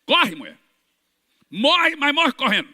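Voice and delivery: loud, rising command; commanding shout. Retold or imitated. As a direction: order her to run, full voice. Manda a mulher correr gritando. (grito de comando para a mulher correr)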